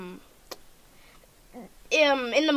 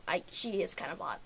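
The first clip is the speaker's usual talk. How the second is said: shy, quiet; 6 semitones lower, 11 dB quieter, faster than usual. Real, not acted. Shy remark about Wonder Woman.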